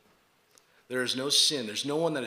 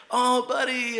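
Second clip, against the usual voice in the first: higher, louder mock-coaxing voice; lightly imitated coaxing; 10 semitones higher, 5 dB louder than usual. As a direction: coo it as if to a little patient. Acting out the anesthesiologist's baby talk.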